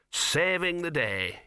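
drawn-out, muffled-sounding delivery; indistinct. A narrator's reading. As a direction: say it indistinctly, as if mouth is full. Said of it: "he said indistinctly".

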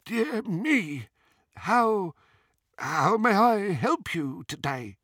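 high, halting goblin voice; startled goblin. A narrator's reading. Flustered goblin serving a feared customer, startled. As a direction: falter upward, collecting yourself in pauses. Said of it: "evidently startled".

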